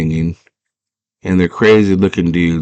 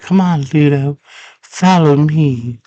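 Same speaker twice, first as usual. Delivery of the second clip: calling out; 8 semitones higher than usual. Retold or imitated. Acts out Sarah calling to Ludo.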